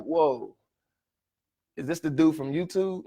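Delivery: laughing in disbelief at meeting him; whoa, laugh it out amazed; amazed laughing aside. Retold or imitated. Meeting his YouTube hero, laughing in disbelief. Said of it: "I'm like".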